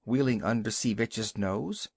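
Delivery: ordinary delivery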